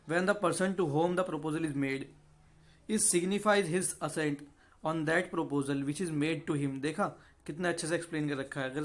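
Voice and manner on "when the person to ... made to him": slow, deliberate reading of the law text; slow statute reading. Acted. Teacher slowly reading the definition to students, measured and deliberate. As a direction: read the section out word by word for students.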